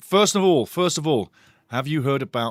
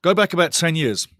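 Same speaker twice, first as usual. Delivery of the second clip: louder, punchy delivery right into the mic; booming; 3 semitones higher, 6 dB louder than usual. Real, not acted. Host admitting he's booming into the mic, loud and pumped. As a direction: boom it out with excitement. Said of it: "And I'm booming in the mic".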